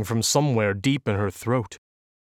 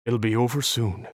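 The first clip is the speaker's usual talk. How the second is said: soft. Acted. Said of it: "Hall said softly".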